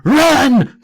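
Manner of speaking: high, loud theatrical yell; hammed-up scream. Todd warns as the ground shakes, hammed-up scream. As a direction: scream it as a melodramatic warning. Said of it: "Todd screamed as the ground trembled".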